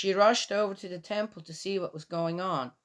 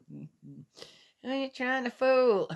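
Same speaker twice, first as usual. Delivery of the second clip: laughing scoff; 5 semitones higher, slower than usual. Real, not acted.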